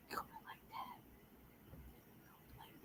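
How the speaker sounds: unvoiced whispered aside. Shown as a demonstration. Whispering how the girls gossiped. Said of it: "whispered demo of how they talked".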